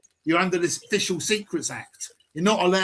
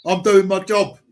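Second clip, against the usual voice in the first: mocking quote; 4 dB louder than usual. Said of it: "I used to get a lot of that".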